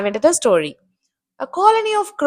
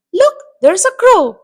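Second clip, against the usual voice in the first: high-pitched cry of discovery; calling out; 8 semitones higher, 4 dB louder than usual. Acted. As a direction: call out a sudden sighting to the others. Owls spot the cawing crow.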